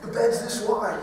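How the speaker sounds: soft, hushed protest; hushed reply. Retold or imitated. Dad answering his son in the dark bunkhouse, hushed. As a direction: keep it down, half-whisper. Dad whispering back at night.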